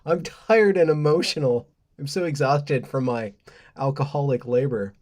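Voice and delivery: mock complainer. Mocking woke complainers to viewers, hammed-up whine. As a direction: play the put-upon complainer for a laugh. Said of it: "heard that from woke complainers".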